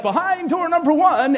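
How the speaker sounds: lightly hammed-up game-show reveal; God as game-show host. God presenting the animals to Adam, mock game-show announcement. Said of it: "when God is like".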